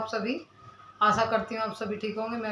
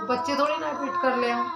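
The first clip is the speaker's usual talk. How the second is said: holding back real tears while pleading; a real crack of crying as she explains to viewers; near tears. Real, not acted. Upset defending herself to commenters.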